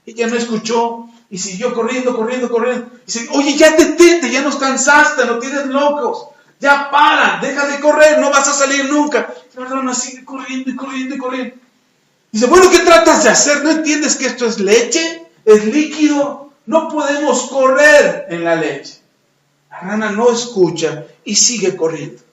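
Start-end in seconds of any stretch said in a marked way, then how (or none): 3.3-9.3 raised, insistent telling-off; exasperated scolding. Acted. Frogs tell the runner to stop, exasperated scolding. 12.4-19.0 raised voice, slowing to hammer it home; exasperated scolding. Acted. Frogs argue that milk is liquid, exasperated scolding.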